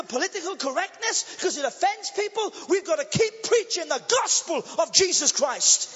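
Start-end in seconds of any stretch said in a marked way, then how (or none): 2.7-5.9 preaching loud. Real, not acted. Preacher's climax.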